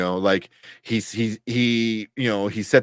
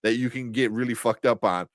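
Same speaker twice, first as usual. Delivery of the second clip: high, loud mock-cheerful offer; 4 semitones higher, 3 dB louder than usual. Drug runners showing off their cargo, mock cheerful. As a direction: ham up a dopey dealer proudly showing off the goods. Mocking truck drivers' careless plan.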